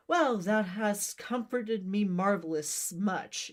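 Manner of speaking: slow, mildly put-on sincere thanks; forced sincerity. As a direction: sound grateful without meaning it, slowly. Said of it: "trying to make it sound sincere".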